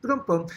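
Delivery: rimshot. Shown as a demonstration. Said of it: "joke punchline".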